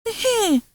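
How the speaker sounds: pleased exclamation. Acted. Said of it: "Indusa soliloquized".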